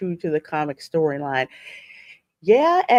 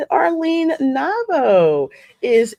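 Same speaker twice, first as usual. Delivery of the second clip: drawn-out welcome; 7 semitones higher, 4 dB louder, much slower than usual. Real, not acted. Greeting a viewer in the chat.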